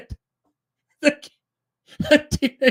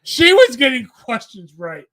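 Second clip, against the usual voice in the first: laughing; 2 semitones higher, 6 dB louder than usual. Real, not acted. Laughing through the story.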